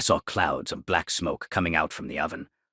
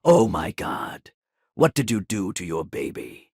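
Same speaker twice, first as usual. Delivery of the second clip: horrified scream; 4 semitones higher, 4 dB louder than usual. Retold or imitated. Narrator sees the burnt doll on the tray, horrified loud cry. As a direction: recoil at the burnt baby, yelling. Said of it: "I screamed".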